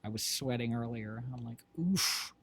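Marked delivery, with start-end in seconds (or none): 1.8-2.3 puffed "oof", higher pitched; retold oof. Streamer recalling sweating earlier, retold oof. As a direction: let out a quick, overheated "oof".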